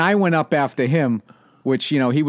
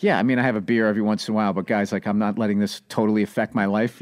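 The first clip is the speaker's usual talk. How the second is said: straight-laced guy; 5 semitones lower, faster than usual. Retold or imitated. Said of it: "straight-laced kinda like".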